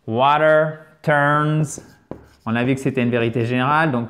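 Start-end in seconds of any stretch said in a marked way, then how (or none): 0.1-1.8 very slow, deliberate Water turns; slow model reading. Shown as a demonstration. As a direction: read it slowly for learners. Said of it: "model phrase read slowly". (lecture très lente)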